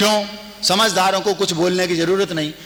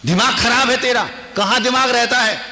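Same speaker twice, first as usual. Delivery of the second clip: mock scolding; 4 semitones higher than usual. Foolish husband scolding wife.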